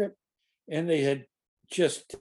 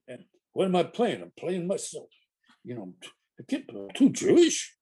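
imitating Jackie; 4 semitones higher than usual. Jackie's retold complaint, voiced.

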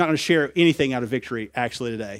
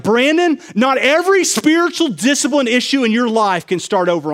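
voice of the Lord; 9 semitones higher, 6 dB louder than usual. Retold or imitated. The Lord addresses him by name.

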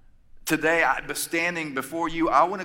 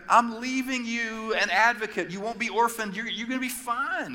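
casual Jesus; 9 semitones higher than usual. Retold or imitated. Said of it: "He was like".

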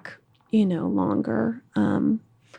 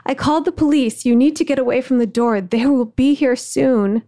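yelling out; 4 semitones higher, 3 dB louder than usual. Retold or imitated. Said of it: "I yelled out".

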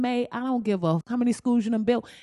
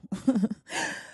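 laugh. Real, not acted. Laughs before a last topic.

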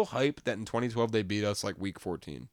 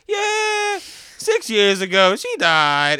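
much higher and louder, hammed-up; mock shouted answer; 7 semitones higher, 9 dB louder, much slower than usual. Podcaster retelling Beetlejuice blurting his sister died, loud and hammed-up. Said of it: "he's like".

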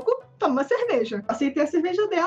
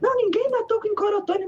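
cocky indignation; 6 semitones higher than usual. Retold or imitated. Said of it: "assumir essa personalidade".

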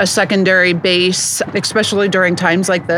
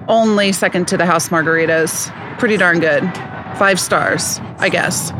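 snobby voice. Acted. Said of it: "Can you do a snobby voice".

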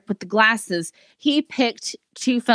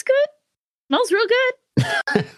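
slow savoring; 14 semitones higher, slower than usual. Acted. Savouring her dad's beer.

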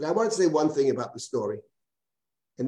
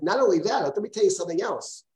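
effusive; 4 semitones higher than usual. Retold or imitated. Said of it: "Eliyahu is very effusive".

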